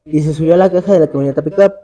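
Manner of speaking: measured read-aloud storytelling with pauses between phrases; horror story narration. A narrator's reading. Podcaster telling a friend's ghostly canal encounter, scary-story narration. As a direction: narrate an eerie true account, phrase by phrase.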